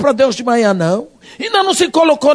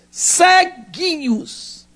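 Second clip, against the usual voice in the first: pitying tease; 3 semitones higher, 4 dB quieter, much slower than usual. Acted. Mocking pity for blind believers.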